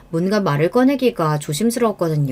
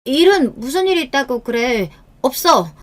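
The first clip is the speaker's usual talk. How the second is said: higher, defensive voice; startled denial; 5 semitones higher than usual. Acted. Wife hiding something from husband, startled. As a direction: deny it as if caught out. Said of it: "화들짝 놀라며 말을 더듬었어요".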